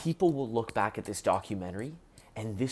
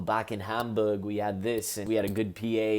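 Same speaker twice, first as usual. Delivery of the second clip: lightly attempted Liverpool accent; bad Liverpool accent. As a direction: have a rough go at Scouse. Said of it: "that's my bad Liverpool accent".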